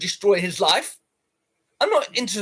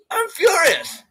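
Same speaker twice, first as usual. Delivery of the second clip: high, loud, near-crying yell; squealing furious shout; 10 semitones higher, 5 dB louder, slower than usual. Real, not acted. Streamer repeats his complaint to chat, tearful mock shout. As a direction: wail it out like a tantrum.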